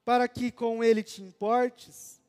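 slow, measured psalm reading with pauses; scripture reading. Acted. Preacher reads Psalm 8 to the congregation, solemnly. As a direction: read the psalm with solemn weight.

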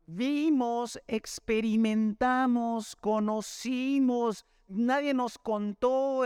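each word drawn out slowly; slow emphatic listing. Real, not acted. Preacher to congregation, slow and emphatic. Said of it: "preacher stressing lived experience".

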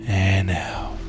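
"and out." breathed out as a whisper. Shown as a demonstration. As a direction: let "and out." go on the exhale. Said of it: "release slowly out your nose".

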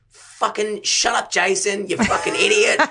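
high, slow mock snap at Jason; hammed-up high fed-up yell; mock angry outburst. Quoting himself snapping at Jason, high mock outburst.

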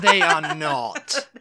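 slow, high, loud denial; indignant protest. Real, not acted. Defending chip shops against her friend, indignant and slow. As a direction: drag it out in mock outrage.

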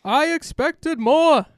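put-on mixed British accent. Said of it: "a whole different voice for that second little bit".

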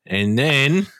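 hammed-up Aussie yarn-spinner accent; Australian accent. Co-host spinning a mock night-out yarn, Australian accent. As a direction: tell it as a broad Australian tall tale. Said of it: "really good Australian accent".

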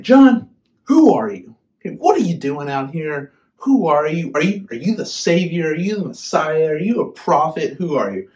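imitated Pharisees pressing John with questions; demanding Pharisees. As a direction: fire questions at him like an annoyed Pharisee. Pharisees confronting John, acted.

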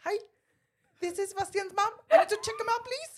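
mock Asian accent. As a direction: impersonate mom's phone accent, hammed up. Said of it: "A ver, hácelo".

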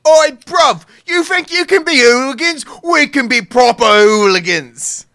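mock English football thug in a London accent; British hooligan accent. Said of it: "I'm not gonna do this in a Russian accent".

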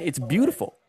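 light Indian accent imitation. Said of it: "My dad said it in an Indian accent".

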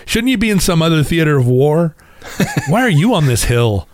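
imagined voice asking the picnicking officers why they are here; mock exasperated question. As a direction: tease the officers with mock puzzlement. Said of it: "you just have that feeling of".

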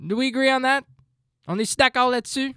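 high, loud challenge; loud demanding question. Real, not acted. Pressing listeners to agree, high and loud. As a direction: demand an answer.

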